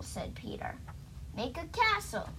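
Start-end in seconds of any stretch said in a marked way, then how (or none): 1.3-2.3 higher-pitched order to a wand; mild command. Acted. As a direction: give a light storybook order. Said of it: "I commanded".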